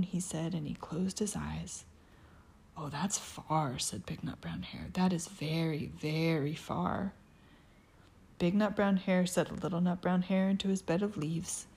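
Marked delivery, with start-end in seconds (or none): 2.8-7.1 hushed whisper. Acted. Soft whispered reading.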